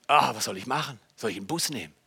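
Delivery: leises, tiefes Grübeln; ratlos nachgespielt. Retold or imitated. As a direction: kleinlaut mit sich selbst reden. Erzählte Ratlosigkeit bei Schmerzen. (gespielt ratlos)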